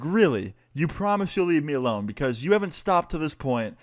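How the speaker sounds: skeptical retort. Retold or imitated. Doubting her promise in retold quarrel.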